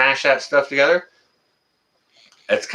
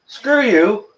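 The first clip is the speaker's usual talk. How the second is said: mock brush-off; 10 semitones higher, 4 dB louder than usual. Brushing off the texter.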